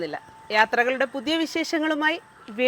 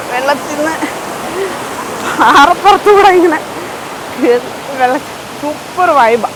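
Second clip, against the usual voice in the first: excited vlogger; 5 dB louder, slower than usual. Real, not acted. Loud excited vlog at waterfall.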